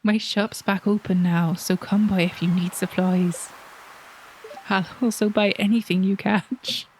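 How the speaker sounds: put-on hearty salty fisherman accent; Willy's accent. Fisherman invites newcomer to his shop, seafaring accent. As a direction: pitch the shop in a put-on sea-dog accent. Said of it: "need to do the accent one more time".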